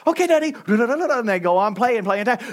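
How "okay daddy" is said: mock kid voice. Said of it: "I'll be like".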